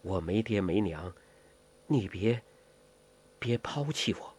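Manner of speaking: soft, low, halting pleading; hushed orphan girl's plea; low-voiced plea. A narrator's reading. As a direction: plead quietly, pausing before repeating yourself. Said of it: "穆念慈低声地说".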